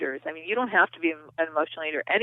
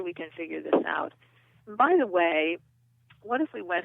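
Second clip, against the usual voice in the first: kind inner nurturing voice. Shown as a demonstration. Inner nurturer comforting an anxious overworked self, gently reassuring. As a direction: reassure yourself like a loving parent. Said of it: "The inner nurture voice comes on and says".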